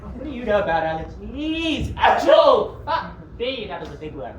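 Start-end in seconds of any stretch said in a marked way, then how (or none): 0.0-2.8 defensive shout. Acted. Villain snaps defensively.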